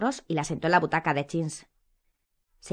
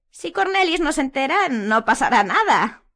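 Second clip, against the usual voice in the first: Umbridge panting; 8 semitones higher, 7 dB louder than usual. A narrator's reading. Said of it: "jadeando ligeramente".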